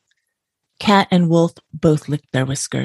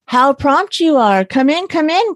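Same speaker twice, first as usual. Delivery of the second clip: cried out; 10 semitones higher than usual. A narrator's reading. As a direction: hail the guests with false delight. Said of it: "cried Cat to Dog".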